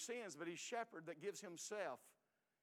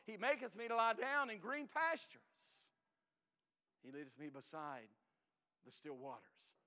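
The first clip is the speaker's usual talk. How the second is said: tender recital. Acted. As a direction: let the verse settle into a hush. Psalm recited, fading.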